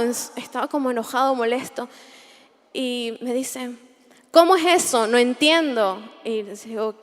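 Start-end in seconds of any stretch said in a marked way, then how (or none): 4.3-6.0 retold angry captain. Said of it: "él estaba enojado".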